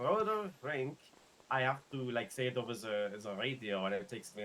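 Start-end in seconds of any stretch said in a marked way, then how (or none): 0.0-1.0 roller rink drawn out slowly, straining on the R's; careful roller rink. Shown as a demonstration. Telling a friend about radio calls, slow effortful R's. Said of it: "it is hard for me to do those R's".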